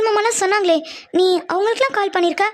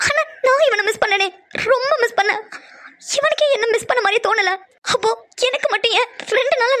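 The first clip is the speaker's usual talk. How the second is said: hurt and tearful. Acted. Brooding that Sham never missed her, tearful. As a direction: swallow the hurt, near tears.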